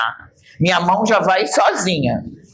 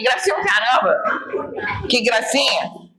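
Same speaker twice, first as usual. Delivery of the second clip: mocking annoyance; 6 semitones higher, slower than usual. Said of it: "annoyed mimicry".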